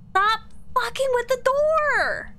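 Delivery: angry yell. Real, not acted. Player yelling at the ghost to leave the door alone, angry yell. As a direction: snap at the ghost to quit it.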